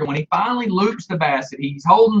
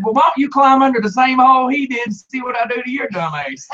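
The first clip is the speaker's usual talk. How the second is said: retold defiant retort; 6 semitones higher than usual. Retold yelled retort to neighbor.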